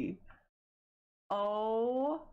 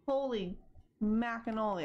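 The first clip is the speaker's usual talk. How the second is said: loud excited outburst; loud exclamation; 3 semitones higher than usual. Real, not acted. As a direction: blurt it out loud. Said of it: "that was really loud".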